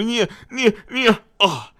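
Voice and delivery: high, slurred stammer; stuck on one word, high and indistinct; mumbled, incoherent. Retold or imitated. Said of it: "他嘴里含糊不清".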